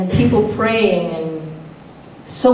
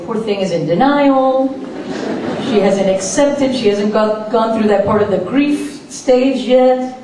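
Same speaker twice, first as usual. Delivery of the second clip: pitying relatives; 2 semitones higher, slower than usual. Retold or imitated. Relatives pitying the patient they think is in denial, slow mock pity. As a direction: drawl it out like sorry relatives.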